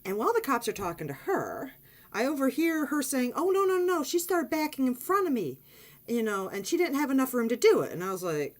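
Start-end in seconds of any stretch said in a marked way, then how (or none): 3.3-7.9 higher, louder mock protest; mock protesting woman. Woman telling the cops the narrator backed out in front of her. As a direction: imitate her blaming you.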